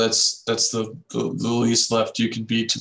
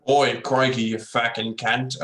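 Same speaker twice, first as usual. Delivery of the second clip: slow broad bogan Australian accent; drawn-out ocker Australian swearing; slower than usual. Shown as a demonstration. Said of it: "Can anyone do, like, a Bogan Aus-, uh, accent".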